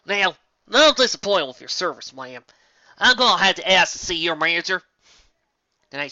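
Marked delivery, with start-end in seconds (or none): 0.0-4.8 mock entitled customer. Mocking complaint to villain.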